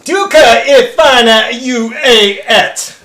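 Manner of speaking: a halting attempt at Danish; mock Danish. Reading a fan's Danish line aloud, halting mock Danish. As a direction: read the Danish slowly, sounding it out. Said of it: "Dan Schultz says".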